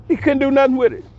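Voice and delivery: emphatic repeat. Real, not acted. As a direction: say it again, way up in pitch, gloating. Repeats the line, much higher.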